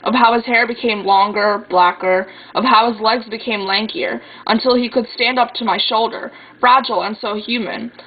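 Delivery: lilting spoken-word poem reading; slam poetry recitation. Acted. Sister reads a poem about watching her brother sleep, in spoken-word style. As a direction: recite it line by line with deliberate cadence.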